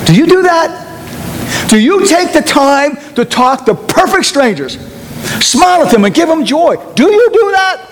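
fervent preacher's challenge; preaching. Acted. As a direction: climb and press each question.

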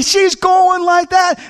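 ordinary talk, nothing marked

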